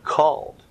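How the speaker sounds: preacher stressing "called"; emphasis on called. Real, not acted. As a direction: lean on "called" as the key word. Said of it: "place more emphasis on the word".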